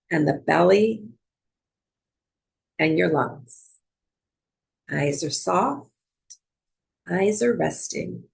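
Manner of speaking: calm, unhurried meditation guidance with long pauses; measured yoga teacher cueing, leaving space between phrases; guided breathwork. Real, not acted. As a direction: guide them gently into noticing the breath.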